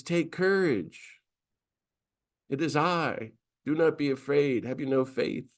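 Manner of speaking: Jesus calming his disciples at sea, lightly voiced; reassuring Jesus. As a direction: comfort frightened followers, unhurried. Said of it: "storm at sea says".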